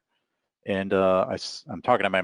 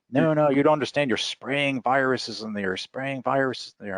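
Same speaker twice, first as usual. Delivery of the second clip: higher, insistent mock alarm; retold panicked man; 7 semitones higher than usual. Terrified man warning the walker about viruses, mock panic. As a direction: act out his agitated warning, pitch raised. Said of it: "he's visibly afraid. He's terrified".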